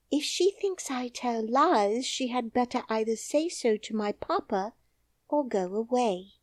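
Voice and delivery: high, firm little princess. Acted. Princess refuses the nurse, high and firm.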